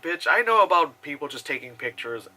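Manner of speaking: whispered sassy retort; under your breath, cheeky; whispered mock comeback to drivers. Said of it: "so I'm like".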